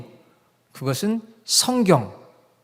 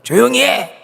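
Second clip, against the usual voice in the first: sharp adult shout; 8 semitones higher, 7 dB louder, slower than usual. Acted. An adult appears before rowdy children at home, loud scolding shout. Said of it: "딱 한마디 어른이 크게 하면은".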